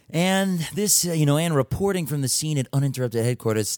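put-on news anchor sign-off, Greek accent on the name; mock reporter signing off. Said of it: "really valid Greek accent".

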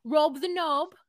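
hammed-up crying lament; mock weepy. Playing the girlfriend, mock crying for her man. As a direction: fake a sob over Rob.

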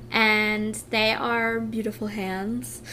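slow, tender words breaking into a tearful laugh; really moved, laughing through tears; getting emotional. Real, not acted. Woman praising her partner's hands, getting emotional. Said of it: "I'm getting emotional again".

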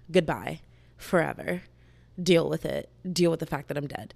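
lightly voiced firm, loud dismissal; mock-stern farewell, hit hard; acted stern send-off. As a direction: lay down the law to a friend. Voicing Nehemia's scolding of Selena.

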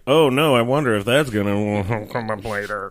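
mock dread. Mocking trope foreshadowing line.

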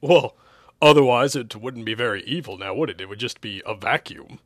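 loud start, settling into obviousness; as if it were plainly obvious; tone of duh. Acted. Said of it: "with a tone of duh".

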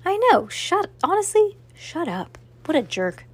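high, exasperated complaint; venting at a rude character; real annoyance. Real, not acted. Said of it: "That's rude".

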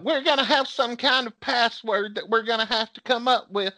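high-pitched mom voice; imitated mom. Mom proposes a password for calls, imitated high voice. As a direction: mimic mom laying down a plan. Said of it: "Mom was like".

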